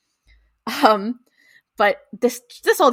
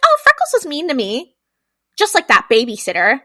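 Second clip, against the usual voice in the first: higher, imitated little-girl complaint; lightly mock a child tattling, pitched up; little girl near tears; 5 semitones higher, 4 dB louder than usual. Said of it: "clearly on the verge of tears".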